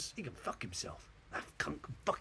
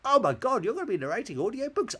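high, loud mock-amazed questioner; hammed-up squeal of disbelief; amateur dramatics; 11 semitones higher, 8 dB louder than usual. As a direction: gush in pretend astonishment. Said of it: "it's a bit amateur dramatics".

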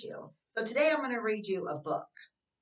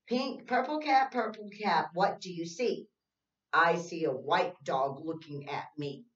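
put-on reading to children; 4 dB louder than usual. Reads picture book.

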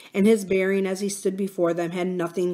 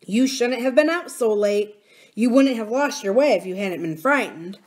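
put-on blunt, firm young miner; boy warning with some force; lightly voiced miner boy; 4 semitones higher, 4 dB louder than usual. Miner boy warning nurse about sharp-eared goblins, blunt.

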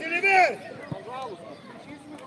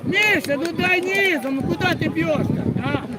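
yelling from the sidelines. Real, not acted. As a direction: shout it across the pitch. Coach yelling at a player.

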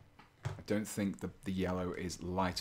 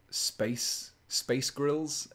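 higher and louder, a light Scottish lilt on Space Grills; mock Scottish; 7 semitones higher, 4 dB louder, much slower than usual. Shown as a demonstration. Streamer showing chat the Space Grills joke in mock Scottish. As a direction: say Space Grills so it lands like a Scottish version of a band's name. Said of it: "sound like a Scottish person saying a band's name".

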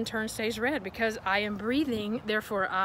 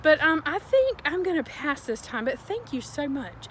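polite refusal; 4 semitones higher than usual. Shown as a demonstration. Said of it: "You need to say".

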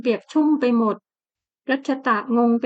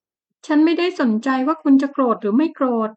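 defiant retort; 3 semitones higher, 3 dB louder than usual. Acted. Heroine defiant toward husband.

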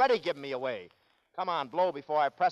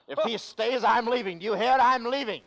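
indignant huff; 7 semitones higher, 6 dB louder than usual. Acted. Prince storms off in jealousy.

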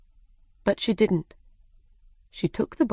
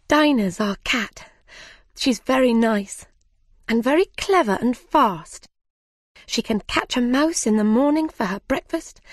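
higher, quickening chatter about her cat; eager Alice; 5 semitones higher than usual. Acted. Alice gushes to the animals about her cat, eager and high. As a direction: gush about the cat, then catch yourself.

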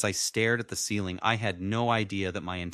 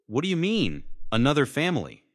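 stunned disbelief; 7 semitones higher, 4 dB louder than usual. A narrator's reading. Son stunned by father's news.

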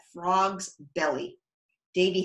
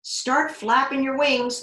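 giggling frog; 7 semitones higher, 5 dB louder than usual. Acted.

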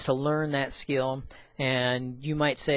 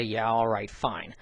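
grudging concession, dropping lower on the last word; 3 semitones lower than usual. Acted. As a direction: give in reluctantly, voice sinking. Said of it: "look at and grudgingly say".

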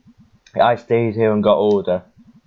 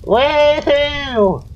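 very high, loud woohoo; excited whoop; 4 dB louder than usual. Acted. Player cheering the character's return, high excited whoop. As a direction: whoop like a kid let loose. Celebrating being home.

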